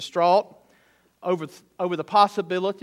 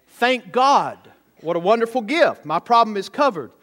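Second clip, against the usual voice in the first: higher, louder relieved exclamation; rush of relief; 4 semitones higher, 4 dB louder than usual. Acted. Boy's problem is covered by fishbowl water, relieved outburst. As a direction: voice a boy's sudden, grateful relief. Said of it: "had a rush of relief".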